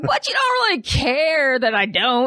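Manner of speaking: mock indignant, laughing; laughing through the quote. Friend retelling the Quaker man's comeback, laughing. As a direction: laugh the words out slow. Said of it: "the guy was like".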